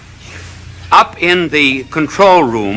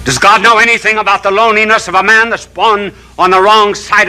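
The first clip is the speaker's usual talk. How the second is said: rising, fervent preacher cadence; impassioned televangelist sermon; preaching; 2 semitones higher than usual. Acted. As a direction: build each question like a sermon. Preaching series of questions.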